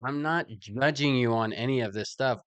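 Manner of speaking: mock-reassuring interviewer; reassuring questioner. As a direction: insist it is all harmless. Acted questioner reassuring the person questioned.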